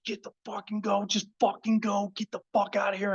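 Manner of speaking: a retold panicked "go go go" in a high voice; urgent mock yell. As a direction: pitch it up like urging the driver to floor it. Yelling at Humvee driver to go.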